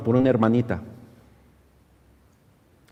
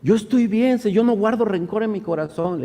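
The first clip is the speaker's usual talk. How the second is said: imitating a crying woman, higher and louder; tearful protest; 8 semitones higher, 4 dB louder than usual. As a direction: plead in a raised, mock-tearful voice. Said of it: "llorando le decía". (protesta llorosa imitada)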